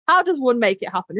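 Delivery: mock-refined East Coast accent. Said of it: "Imagine in her nice East Coast accent".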